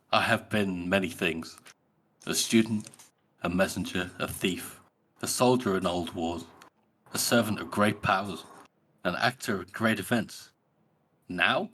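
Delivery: measured list with reflective pauses; pensive. Acted. Killer looking back on his past lives, understated pensive delivery. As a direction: weigh each item, lightly acted musing. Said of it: "He's just so pensive here".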